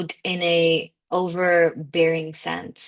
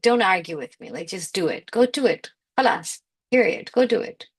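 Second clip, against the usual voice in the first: bossy command. Retold or imitated. Inner voice bossing her.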